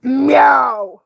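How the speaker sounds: mock cat cry; loud cat meow. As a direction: sound like a grumpy cat. Meowing at the game cat.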